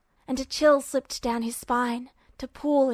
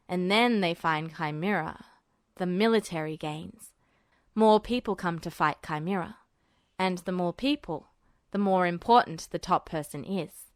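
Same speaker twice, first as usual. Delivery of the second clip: put-on lower, thoughtful young man's voice; Duo, musing; 6 semitones lower than usual. A narrator's reading. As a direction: think it through aloud, lower.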